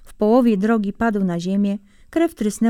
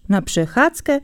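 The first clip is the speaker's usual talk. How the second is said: mocking; 4 semitones higher than usual. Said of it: "zaśmiał się drwiąco zając".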